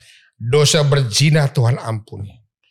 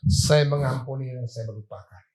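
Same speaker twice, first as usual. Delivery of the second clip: softly sincere, forgiving for real; mean the forgiveness, gently; softer, sincere declaration of forgiveness; 5 dB quieter than usual. Shown as a demonstration.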